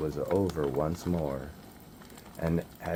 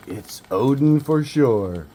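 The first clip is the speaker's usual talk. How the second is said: higher and louder, thrilled; excited gasp; 7 semitones higher, 7 dB louder than usual. Acted. Two small orcs sure Odin has come, excited. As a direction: blurt it out in hushed awe turned glee.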